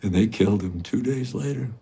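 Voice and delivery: high, loud, grief-stricken confession; anguished grief. Acted. Father recalling his murdered son, anguish rising to a cry. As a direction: build from pained recollection to a raw cry.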